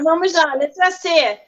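ordinary delivery

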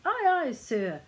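high, loud sailor's acknowledgement; smart reply. A narrator's reading. Little man like a lifelong sailor, replying smartly. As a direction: sing out a dutiful answer smartly. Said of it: "just as smartly".

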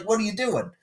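high-pitched mock disbelief; incredulous protest. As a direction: question it in high, exasperated disbelief. Acting out his exasperated reaction.

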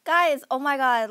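excited. Acted. Excited discovery of a game.

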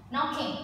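"Knocking" starting on an n, the k unsounded; silent K. Shown as a demonstration. Teacher drilling a word for the class, "Knocking" with its first k silent. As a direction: model "Knocking" with silent k, first syllable stressed. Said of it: "k sound is unpronounced".

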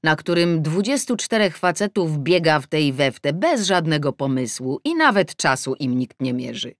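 plain reading voice

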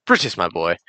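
put-on lightly done British accent; a hint of an old British gent. Gamer answering in character, mild British accent. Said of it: "I can't do British".

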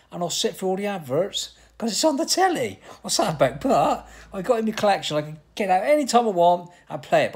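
loud exasperated rant; ranting shout. Real, not acted. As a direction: shout it out in disbelief at yourself. Ranting louder about adverts.

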